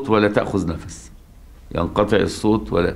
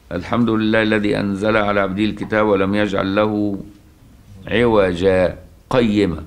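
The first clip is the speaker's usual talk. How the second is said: Quran recitation. Shown as a demonstration. Teacher chanting the opening of the Kahf surah. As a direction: draw out قيما like a reciter.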